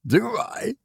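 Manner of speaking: a sharp high-pitched "Do I?"; exclaiming officer. A narrator's reading. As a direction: throw it back at him, incredulous. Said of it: "exclaimed the officer".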